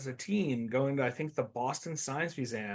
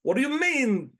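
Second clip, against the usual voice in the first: Christopher Walken impression; 5 semitones higher, 3 dB louder than usual. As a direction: deliver it like Walken, odd pauses. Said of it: "better to have Christopher Walken in there".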